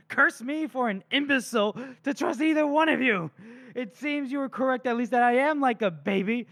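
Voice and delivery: high, wounded indignation building to bitter sarcasm; outraged villain. Acted. Poisoner betrayed by his assistant, hammy outraged rant. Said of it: "Morvir loses his shit".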